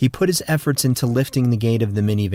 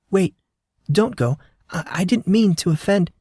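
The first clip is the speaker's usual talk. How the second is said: higher, stammering plea; pleading call; 9 semitones higher than usual. Acted. Nurse calls after the departing man, high anxious plea. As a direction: call him back anxiously. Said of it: "She called after him".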